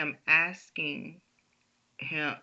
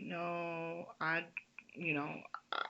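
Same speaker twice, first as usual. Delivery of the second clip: faint, quieter sick voice; weak and sick; 5 dB quieter than usual. Retold or imitated. Daughter telling dad on the phone she feels ill. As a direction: sound drained and unwell. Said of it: "You sound awful".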